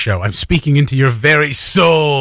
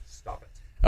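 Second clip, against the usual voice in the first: whispered; 6 dB quieter than usual. Real, not acted. Unvoiced aside.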